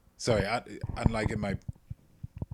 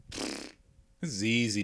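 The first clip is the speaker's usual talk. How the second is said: mock scoff; much slower than usual. Mocking a scoffing viewer.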